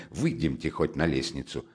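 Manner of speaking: low, hushed urging; exasperated whisper. Acted. Friend asking the women out onto the staircase, hushed. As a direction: drop the voice to draw them out. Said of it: "прошептал из себя, выходя Разумихин".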